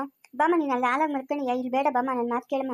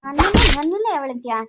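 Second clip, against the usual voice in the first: furious retort; 6 dB louder than usual. Acted. Ghost furious at insult.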